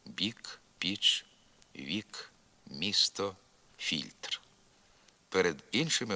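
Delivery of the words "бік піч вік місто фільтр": lightly palatalised б, п, в, м, ф before і, as in "бік", "піч"; slightly softened labials. Shown as a demonstration. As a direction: soften the first consonant of "вік", "місто" a little. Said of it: "перед звуком і губні трохи пом'якшуються".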